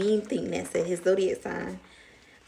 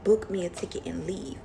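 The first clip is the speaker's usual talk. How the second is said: whispered plan. Retold or imitated. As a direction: whisper it like a private decision. Quoting herself deciding to leave.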